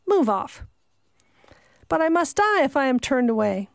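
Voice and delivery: a lightly voiced old maid, refusing flatly; a hint of a wary country servant; stern old servant. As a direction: bar the door, suspicious and firm.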